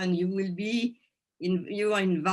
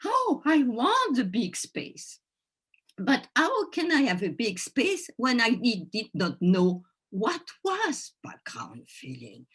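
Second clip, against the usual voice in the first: acted-out inner voice, pitched higher; eager longing; 4 semitones higher than usual. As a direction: voice an eager part of yourself, then puzzled. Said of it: "a part of me wanted".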